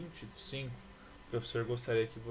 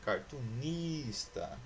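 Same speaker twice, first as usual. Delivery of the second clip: "Cartunista" slowly, stretching the syllable NIS; stress on NIS; much slower than usual. Shown as a demonstration. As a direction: lean on the next-to-last syllable of "Cartunista". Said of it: "Então, essa não é". ("Cartunista" devagar, com NIS alongado)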